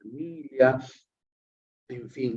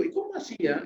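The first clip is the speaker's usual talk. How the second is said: a much higher, softer "¿Y cómo hacía?" as to a friend; asking a friend "¿Y cómo hacía?" with warm curiosity; friendly curious question; 10 semitones higher, 6 dB quieter, faster than usual. Shown as a demonstration. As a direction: lift "¿Y cómo hacía?" up high with easy interest. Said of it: "cuando yo le digo a un amigo".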